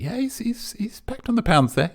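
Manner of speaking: breathy hushed aside; a whispered conspiratorial aside. Real, not acted. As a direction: drop to a whisper mid-joke. Quick aside to viewers.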